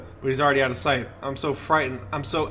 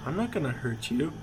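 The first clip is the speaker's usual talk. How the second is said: creepy voice; 6 dB quieter than usual. Acted. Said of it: "in his creepy voice".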